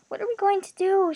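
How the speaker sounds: high-pitched tearful despair; sobbing. A narrator's reading. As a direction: wail it helplessly, acted. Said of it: "she sobbed".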